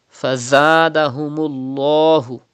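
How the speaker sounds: Fazadahumullahu with a thick, full lam in Allah; heavy lam of Allah. Shown as a demonstration. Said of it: "You have to read with thicker voice".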